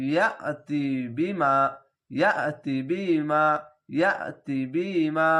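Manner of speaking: "ইয়াতি বিমা" with short "তি" and long final "মা"; quick short vowels. Shown as a demonstration. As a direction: catch after ya in "ইয়াতি", then stretch "মা". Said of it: "অনেক দ্রুত পড়তে হবে এই দুটি অক্ষর". ("তি" না টেনে, "মা" টেনে)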